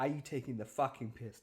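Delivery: fed-up, angry, pissed-off outburst. Retelling reading an unwelcome message, imitating own angry reaction. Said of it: "I was so pissed off. I was like".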